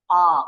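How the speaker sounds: American A; American A vowel. Shown as a demonstration. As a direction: open the mouth wide for A. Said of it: "bunyi A U-nya lebih A".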